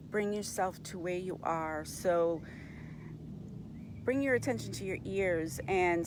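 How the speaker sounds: unhurried meditation guide, long pauses between instructions; guided meditation. Real, not acted. Host guiding listeners into body awareness, calm meditation voice. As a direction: gently lead them through the senses, pausing often.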